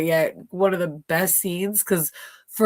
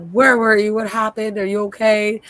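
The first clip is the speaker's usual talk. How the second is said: worried Sarah; 5 semitones higher, 6 dB louder than usual. Retold or imitated. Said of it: "She's like".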